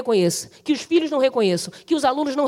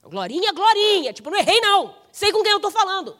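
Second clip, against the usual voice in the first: insistent calling; 6 semitones higher than usual. Acted. God insisting on the person called.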